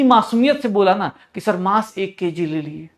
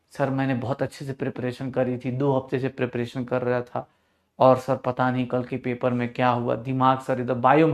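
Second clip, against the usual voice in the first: student imitation; 7 semitones lower, 7 dB quieter than usual. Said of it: "कल शाम को था ना मैसेज".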